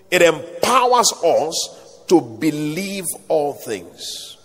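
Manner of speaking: slow, weighty preaching repetition; slow emphasis. Real, not acted. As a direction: let each phrase land slowly. Preacher repeats key point slowly.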